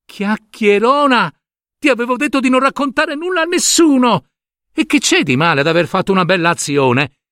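put-on a furious boy yelling at the tattletale; angry shout. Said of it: "gridò". (grido arrabbiato di un bambino)

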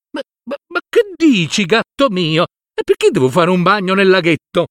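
baffled protest, stumbling on ma; young master startled by the cat's order. Acted. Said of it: "rispose Filippo".

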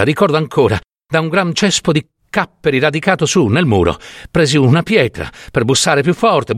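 lightly voiced anguished old storyteller; an old woman insisting on what she saw; distressed old peasant woman. Old peasant woman confiding horrors to the doctor, distressed.

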